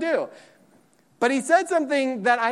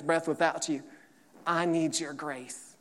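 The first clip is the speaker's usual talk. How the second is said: soft humble prayer; 7 semitones lower, 8 dB quieter than usual. Pretend. Humble prayer voiced by preacher.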